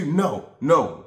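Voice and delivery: half-hearted imitated refusal; mock refusal. Girlfriend refusing, retold.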